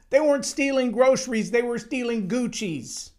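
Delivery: chuckle, then "groceries" said high and amused; amused retelling of the same point; laughing repeat. Real, not acted. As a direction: laugh at how absurd it is.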